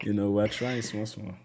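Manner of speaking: light Nigerian accent on small, small. Real, not acted. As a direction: slip into a touch of Nigerian accent. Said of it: "add in your Nigerian accent".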